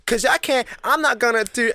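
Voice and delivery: high-pitched mock Black American accent; imitating the manager. Worker caught mimicking his manager, high Black American accent. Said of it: "he started imitating her".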